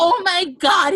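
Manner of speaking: high, loud fan yell, retold; imitated loud yell. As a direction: blurt it out like an overexcited fan. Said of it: "He, like, yelled so loud".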